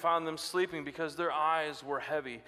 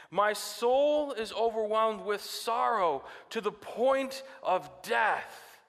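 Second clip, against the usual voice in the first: slow, louder grieving plea; anguished Jesus; 4 semitones higher, 3 dB louder, much slower than usual. Retold or imitated. Jesus telling disciples of his sorrow, slow and anguished. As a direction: ache through it. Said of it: "he said to them".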